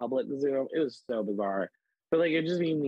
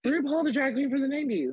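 mom's voice jumps much higher in eager explanation; excited mom; 13 semitones higher than usual. Retold or imitated. Mom telling her teenager about RuPaul, excitedly high. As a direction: play the mom, thrilled her kid hasn't heard of RuPaul. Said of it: "And she was like".

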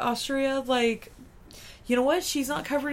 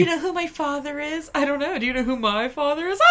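put-on drunken posh sneer; 3 semitones higher, 4 dB louder than usual. Mocking rich brat.

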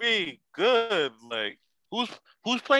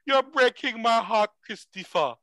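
fake Jamaican accent; 6 semitones higher than usual. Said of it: "A fake Jamaican accent?".

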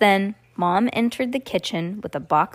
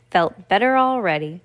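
ordinary delivery, nothing marked

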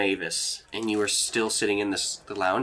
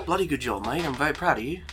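put-on cheerful Australian accent, pitched up at first; 8 semitones higher, 7 dB louder than usual. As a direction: praise the student in a jolly Australian voice. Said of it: "Don't know why he's Australian now".

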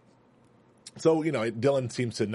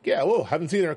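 nervous bad liar; 6 semitones higher than usual. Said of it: "He's like".

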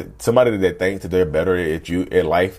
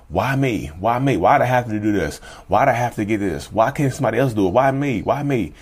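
whiny complaining; 3 semitones higher than usual. Retold or imitated. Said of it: "they say things to themselves like".

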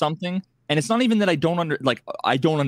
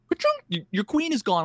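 shrill much higher ka-chunk then flat verdict; mock game announcer; 9 semitones higher than usual. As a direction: play the cruel chess program delivering doom. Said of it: "then it's like".

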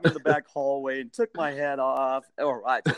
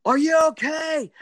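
high, raised shout; imitated shout, pitched way up; loud urgent calling; 13 semitones higher, 5 dB louder than usual. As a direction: call out to rouse someone unconscious. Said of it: "got louder and louder and louder".

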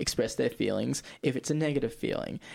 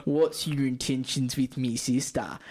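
gruff overprotective brother; slower than usual. Retold or imitated. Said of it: "the line that I has been thrown around".

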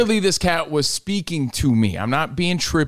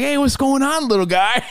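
high cooing voice; talking to a kitten; 10 semitones higher than usual. Retold or imitated. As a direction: coo at a kitten. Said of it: "I'm like".

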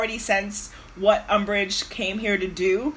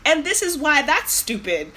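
higher, laughing mock lecture, louder by the end; laughing know-it-all Hermione; 6 semitones higher, 3 dB louder than usual. Podcaster mocks Hermione upstaging Umbridge, laughing imitation. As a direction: rattle off the objections through laughter. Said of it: "she would have been like".

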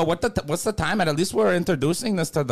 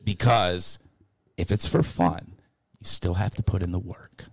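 low menacing character; 10 semitones lower, 4 dB quieter than usual. Pretend.

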